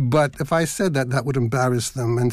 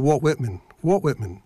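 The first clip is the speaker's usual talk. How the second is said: Philadelphia pronunciation of "Walt Whitman"; Philadelphia accent. Shown as a demonstration. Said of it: "as we say in Philadelphia".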